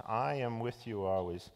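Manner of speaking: "I" leaned on gently at the start; understated emphasis on the opening "I"; stress on I. Shown as a demonstration. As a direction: lead with a weighted "I", the rest easy. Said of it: "It's just a different em-, emphasis".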